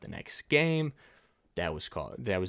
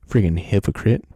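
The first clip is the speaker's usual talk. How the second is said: loud, lower, spat-out "Freaking hypocrite"; insult; 4 semitones lower, 10 dB louder than usual. Real, not acted. Vlogger insulting Gi-hoon as a hypocrite, loud angry jab. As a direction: spit the insult at him. Name-calling the character.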